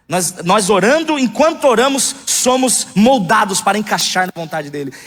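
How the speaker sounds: preaching. Acted. Pastor preaching to the congregation with fervour. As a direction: preach it out to the church.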